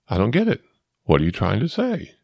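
lightly imitated puzzled friend; Wes. Friend still confused by the explanation, mild mock bewilderment. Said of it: "he looked at the windshield".

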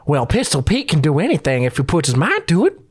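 a hint of an old frontier prospector; folksy old miner greeting. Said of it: "an old prospector".

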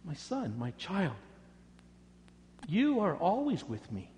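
loving father soothing his son; tender endearment. Acted. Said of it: "terms of endearment".

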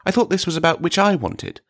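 taken aback, voice lifted; faintly appalled. A narrator's reading. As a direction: object with a touch of dismay. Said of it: "faintly appalled".

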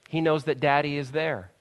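ordinary talk

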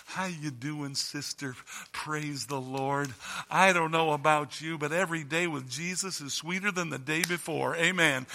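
cheerful churchgoer greeting; lightly voiced happy believer; fervent new convert. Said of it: "we come to church like this".

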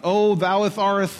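mock-pompous slow King James voice; slow, put-on churchy reverence; churchy old English. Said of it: "We have to church it up".

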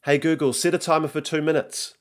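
put-on high-pitched boy giving a command; young son. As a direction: call to the gadget like a kid. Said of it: "says Nico".

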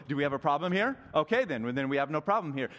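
loud, pointed street challenge; confrontational challenge. Retold or imitated. Passer-by challenging a disliked person, confrontational. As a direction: square up to someone you dislike. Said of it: "you would go".

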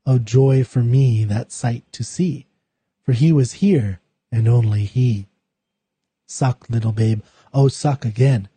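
slow, measured poetry recital; poem reading. Acted. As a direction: read each line slowly with weight and pauses. Reads the poem aloud.

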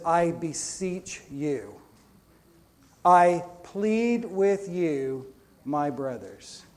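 slow, drawn-out earnest plea; pleading apostle. Acted. Apostle pleading with his brothers, slow and earnest. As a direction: beg them slowly like the apostle. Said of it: "hear the pleading of the apostle".

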